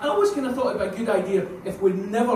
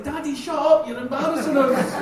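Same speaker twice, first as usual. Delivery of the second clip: put-on much higher, louder bossy toddler; mock child scolding; 8 semitones higher, 6 dB louder than usual. Daughter scolding daddy in the pub, high loud bossy voice. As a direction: scold him like a cheeky child. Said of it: "She was like".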